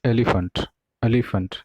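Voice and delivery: एलिफेंट ending in a reduced "fənt"; एलिफेंट with schwa in the last syllable; correct pronunciation. Shown as a demonstration. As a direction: say एलिफेंट as E-li-funt. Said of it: "ये उसका correct form है".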